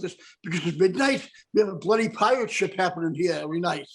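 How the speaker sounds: mock Irish bartender's brogue. Bartender warning about midnight crowd, Irish brogue. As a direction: explain in a put-on Irish accent. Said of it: "Irish brogue".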